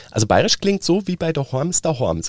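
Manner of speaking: hammed-up fake Bavarian, sing-song. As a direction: mimic an outsider's bad Bavarian. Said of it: "irgend so eine Redakteurin".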